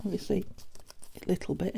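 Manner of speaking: talking through hiccups; little hiccup catching the words. Real, not acted. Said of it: "excuse me, hiccuping".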